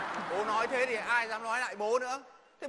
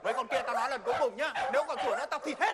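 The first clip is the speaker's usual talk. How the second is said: scolding the dogs; 2 semitones higher, faster than usual. Acted. Shouting at barking dogs.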